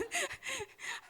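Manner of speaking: a high, hammed-up wailing sob; comic demo of heavy sobbing; mock wail. Shown as a demonstration. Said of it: "paano yung humahagulgol, Rex?".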